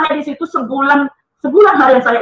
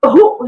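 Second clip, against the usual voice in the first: short spoken mock cough; "ehuk" as a quick cough noise; imitated cough; 3 dB louder than usual. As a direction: imitate a sudden painful cough. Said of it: "Pas mau batuk tuh".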